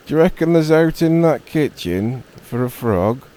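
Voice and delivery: loud, high shouted question; calling across. Acted. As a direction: call it over to the badger. Robin shouts question to badger.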